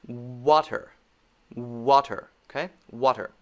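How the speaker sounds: "Water" with lips catching the W. Shown as a demonstration. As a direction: round lips before "Water". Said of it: "examples of the W sound".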